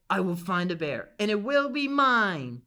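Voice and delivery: put-on old lady gloating over her prize; greedy vow. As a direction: claim the bear like a villain. Lady vows to catch the bear.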